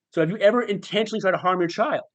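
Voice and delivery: cross-examine with mock patience; sarcastic inner voice. Inner voice leading the father to admit, sarcastic. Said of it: "this incredibly sarcastic voice in my head".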